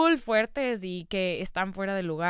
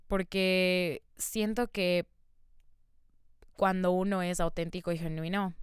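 crying; 3 semitones lower than usual. Real, not acted. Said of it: "les acabo de llorar".

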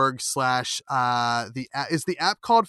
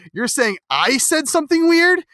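incredulous; 12 semitones higher, 5 dB louder than usual. Retold or imitated. Acted retort to the clerk.

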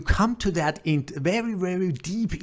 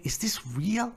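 disbelieving whisper; 5 semitones higher, 3 dB quieter than usual. Real, not acted. Incredulous rant aside.

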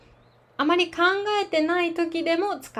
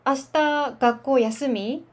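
slow demo; slower than usual. Shown as a demonstration. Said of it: "example sentence demo".

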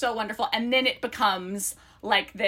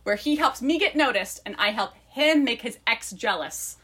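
lively book-blurb read-aloud. Acted. Co-host reads friends the book blurb, lively read-aloud.

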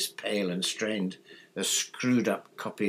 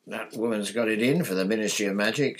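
mild fury; 2 semitones higher, 5 dB louder than usual. Acted. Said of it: "said Percy furiously".

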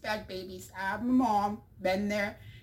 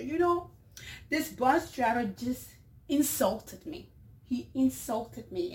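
higher, slow, wounded complaint; upset complaint; 4 semitones higher than usual. Acted. Mother on the bus complains to a passenger, upset. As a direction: play up the hurt of being insulted. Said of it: "very upset, she tells this passenger".

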